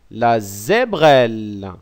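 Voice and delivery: la zébrelle said slowly, each syllable zé-brelle spelled out clearly; slow careful repeat. Shown as a demonstration. Teacher repeating the new word slowly so pupils can copy it. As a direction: stretch out la zébrelle syllable by syllable for learners. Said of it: "On dit".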